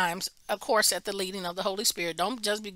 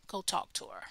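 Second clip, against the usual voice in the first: the Lord speaking; 2 semitones lower, 9 dB quieter than usual. Retold or imitated. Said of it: "and the Lord said".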